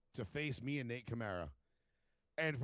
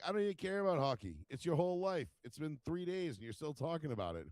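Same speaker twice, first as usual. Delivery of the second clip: higher, animated mock exasperation; exasperated self-quote, pitched up; retold rant; 4 semitones higher than usual. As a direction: rant as if re-enacting the argument. His retold rant at Canadians.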